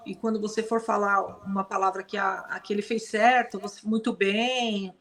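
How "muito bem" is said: slow praise for a good dog; nada memuji. Shown as a demonstration. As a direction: draw the praise out gently. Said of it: "com outra entoação".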